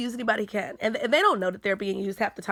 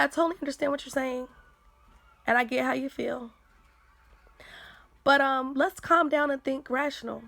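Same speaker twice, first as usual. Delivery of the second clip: calm reply; 3 semitones higher than usual. Shown as a demonstration. Answering an angry accuser, calm and soothing. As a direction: talk them down patiently. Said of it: "And you say".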